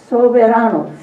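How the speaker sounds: soberano said clearly in Spanish, so-be-RA-no; Spanish soberano with a tapped r; modelled Spanish word. Shown as a demonstration. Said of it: "Say soberano".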